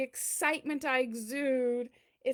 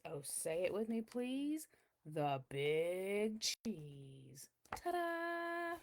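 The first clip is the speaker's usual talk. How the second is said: hushed; 4 semitones lower, 6 dB quieter, much slower than usual. Acted. Catchphrase done softly.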